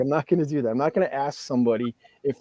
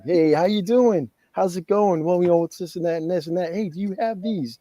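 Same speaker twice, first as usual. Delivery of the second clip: buttering up; 4 semitones higher than usual. Retold or imitated. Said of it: "try to butter up to you".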